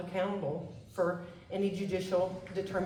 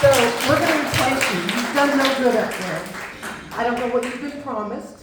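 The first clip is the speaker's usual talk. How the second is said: loud, furious calling out; angry shout; 4 semitones higher, 11 dB louder than usual. Real, not acted. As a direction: shout your anger at the congressman. Constituent confronting absent congressman.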